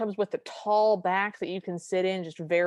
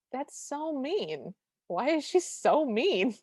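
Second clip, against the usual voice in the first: slow, higher plaintive whine; slow, higher mock whine; mock whiny complaint; 5 semitones higher, slower than usual. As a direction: complain slowly like a wronged child. Cinderella voiced, slow and high.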